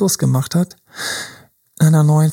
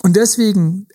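usual speaking voice

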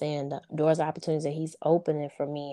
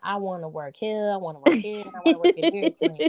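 rising, faster, excited list of jobs; higher and faster by the end, hammed-up enthusiasm; eager kid; 4 semitones higher than usual. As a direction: pile the jobs on like an eager teen. Son listing dream jobs.

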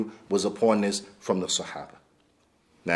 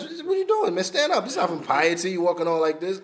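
much higher, half-mock rebuke; retold scolding; 5 semitones higher than usual. Umar rebuking the man who fakes piety, high mock rebuke. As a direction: bark it out like Umar, half joking.

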